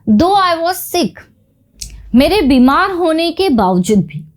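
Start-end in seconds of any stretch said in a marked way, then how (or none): 0.1-1.2 very slow, every word set apart; slow example reading. Shown as a demonstration. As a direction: dictate it slowly to the class. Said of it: "चलिए देखते हैं sentences.". (बहुत धीरे, शब्द-शब्द अलग करके)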